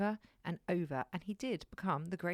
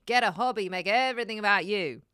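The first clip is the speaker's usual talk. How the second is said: exasperated mock outburst; 8 dB louder than usual. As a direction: huff it out like an exasperated partner. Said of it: "and then you're like".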